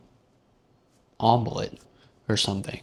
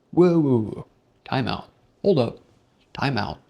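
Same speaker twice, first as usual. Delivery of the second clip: mock alarm; 2 semitones higher, 5 dB louder than usual. Narrator stopping his girlfriend's double standard, loud. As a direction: stop her mid-sentence in mock alarm.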